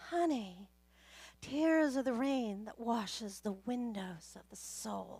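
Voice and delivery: acted, sweet-voiced, gentle counselling tone. Retelling what a counselor told her: imitating a sweet voice. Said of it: "in this sweet voice that she has".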